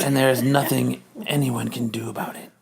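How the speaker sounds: whispered villain threat; menacing whisper. Acted. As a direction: breathe the threat, no voice.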